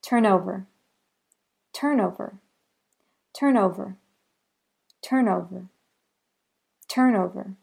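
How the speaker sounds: "Turn over" with the n carried into "over"; linked demo. Shown as a demonstration. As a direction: blend "Turn over" into one word. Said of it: "The next example is turn over".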